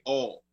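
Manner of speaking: "all" with a flat open aw vowel for oil; Philly accent. Shown as a demonstration. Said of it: "they would say".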